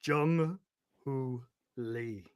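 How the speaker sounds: lightly voiced ballpark announcer; stadium announcer voice. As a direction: call the lineup like a stadium PA. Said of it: "P A voice".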